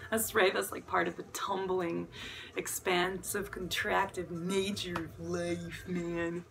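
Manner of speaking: laid-back stoner voice. Real, not acted. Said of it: "I guess I have a good stoner voice".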